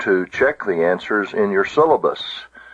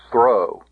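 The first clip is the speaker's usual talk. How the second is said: "throw" alone, firmly stressed; "throw" set apart with a firm accent; accented syllable isolated. Shown as a demonstration. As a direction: punch out "throw" as a lone syllable. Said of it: "an acute accent".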